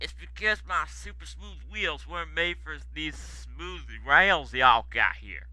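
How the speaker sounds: put-on soft, plaintive American-accented excuse; mournful. Stanley apologising to the controller, mournful and soft. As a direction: plead quietly that it isn't your fault. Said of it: "mourned Stanley".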